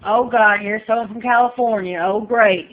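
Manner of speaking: loud, exasperated mock dismay; hammed-up groan at a newcomer. Imagined locals groaning loudly at a Californian arrival. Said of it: "it wasn't like".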